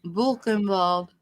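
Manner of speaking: "Buchenwald" slowly, with the W as a V. Shown as a demonstration. Host copying dad's German, W like V. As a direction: say "Buchenwald" with a V sound before "ald". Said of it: "pronounced the W's like V's".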